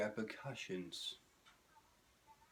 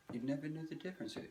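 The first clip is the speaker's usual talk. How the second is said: Red Green impression; 6 semitones higher, faster than usual. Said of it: "I do a much better red green".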